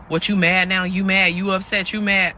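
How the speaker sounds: mock taunting questions; needling. Partner goading silent woman in the car, needling imitation. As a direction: imitate him poking, in quick repeated questions.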